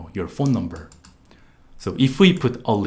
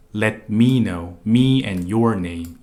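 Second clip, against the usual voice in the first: me and your pressed, slower and louder; stress on me and your; 4 dB louder, slower than usual. Shown as a demonstration. Teacher pointing out the missing me and your, stressed. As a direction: lean on me and your. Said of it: "these two words are very obvious".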